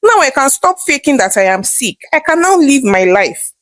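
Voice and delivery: thrilled mother, then firmly dismissive; excited. Acted. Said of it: "replied excitedly".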